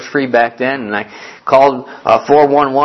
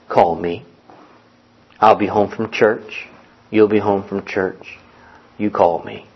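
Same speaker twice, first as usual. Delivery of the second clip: put-on slow, lower old Texas drawl; 4 semitones lower than usual. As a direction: lean into a lazy Southern Texas drawl. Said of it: "he had that old Texas drawl to him".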